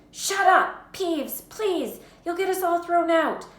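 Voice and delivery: high, loud, desperate plea; urgent pleading. A narrator's reading. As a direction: beg the troublemaker to shut up. Child begs cackling Peeves for silence.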